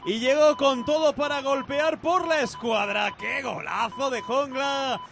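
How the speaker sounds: shouted goal call; breakneck goal commentary. Real, not acted. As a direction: burst out on the strike.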